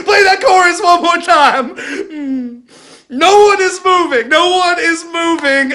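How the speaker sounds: loud pleading voice, half laughing, half crying; hammed-up breaking despair; frustrated near-crying. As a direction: beg the crowd in frustration. Desperate pastor, no one comes forward.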